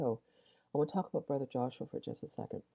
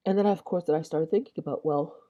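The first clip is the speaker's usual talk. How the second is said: yawning; 3 semitones higher, 6 dB louder than usual. Real, not acted. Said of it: "I got yawns here".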